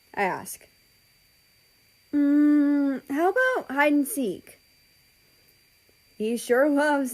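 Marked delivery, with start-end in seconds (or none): 2.1-4.6 eager little brother. Acted. Ozzy eager for a child's game.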